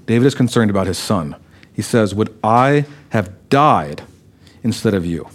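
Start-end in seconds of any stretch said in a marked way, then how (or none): 2.1-5.3 tender grief. Acted. Preacher dwells on David's grief.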